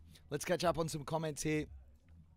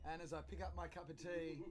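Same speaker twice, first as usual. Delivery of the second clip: talking into a cup; 3 semitones higher, 11 dB quieter than usual. Retold or imitated. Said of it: "and I went".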